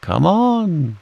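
high, long-held call passed along; drawn-out, high storybook holler. A narrator's reading. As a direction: echo the call down the line. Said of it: "called Pooh and Piglet".

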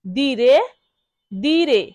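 দিরে as DEE-reh, long first syllable; model pronunciation. Shown as a demonstration. Teacher drills learners on দিরে, careful model pronunciation. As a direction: sound out "দিরে" as dee-reh, each one set apart. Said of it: "বারবার শব্দটি উচ্চারণ করব".

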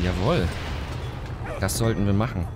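normal talking voice

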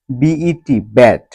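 বিইটি spelled slowly, then ব্যাট with a short e. Shown as a demonstration. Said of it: "যেমন". (বানান করে ধীরে, তারপর ব্যাট উচ্চারণ)

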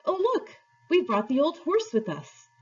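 put-on high-pitched girl's exclamation; eager high cry of discovery. A narrator's reading. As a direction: exclaim it in surprise, pitched well up. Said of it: "Polly cried out".

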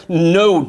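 "know" said alone, punched and falling; stress on know. Shown as a demonstration. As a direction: lean hard on "know". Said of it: "and underline that word".

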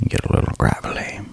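soft whispered "get a little gravelly". Shown as a demonstration. ASMR viewers hear the gravel line again, whispered. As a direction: breathe it out as a whisper. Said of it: "go down low into my chest".

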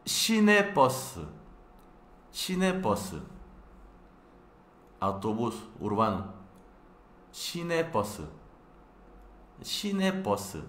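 "시내버스" mucho más alto y rápido; modelo de pronunciación. Shown as a demonstration. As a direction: canta "시내버스" como modelo. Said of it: "así es como pronuncia". (pronuncia "시내버스" aguda y rápida)

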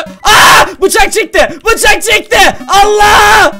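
high, loud panicked cries; panicked shouting. Real, not acted. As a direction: yell in real panic as the knife comes out. Girl pulls a knife, panics. (bıçakla kovalanırken panik içinde yüksek sesle bağırma)

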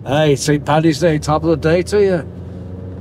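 slow, hammed-up Irish brogue; a touch of Irish brogue, played for fun; Irish accent. Shown as a demonstration. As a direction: lay on a stage Irish lilt, drawn out. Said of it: "I can do other accents, too".

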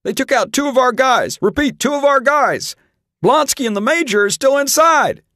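high, loud panicked radio call; panicky cry. A narrator's reading. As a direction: yell for help over the radio in panic. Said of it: "cried a panicky voice".

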